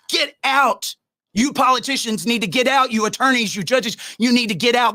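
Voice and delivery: ranting dad ordering politicians out; angry. Real, not acted. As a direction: throw them out, furious.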